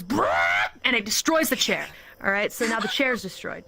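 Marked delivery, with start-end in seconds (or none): 0.0-0.7 crunch bird roar. Retold or imitated. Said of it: "The crunch bird goes".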